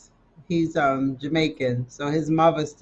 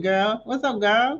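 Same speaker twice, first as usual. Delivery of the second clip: mock Southern "Girl, what's up, girl?"; Southern greeting; 6 semitones higher than usual. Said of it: "how he said, how y'all".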